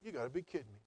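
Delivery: a quiet, incredulous thought; under-the-breath you gotta be kidding; inner disbelief. Retold or imitated. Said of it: "I thought".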